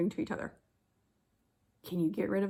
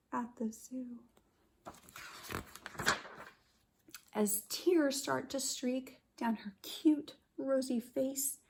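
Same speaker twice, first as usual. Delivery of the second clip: soft whispered sorrow; sad whisper; 2 semitones higher, 3 dB quieter than usual. Acted. Teacher whispering the sad part to her class. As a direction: hush it like a tearful moment.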